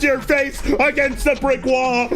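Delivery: building rage. Acted. Escalating mock rage rant.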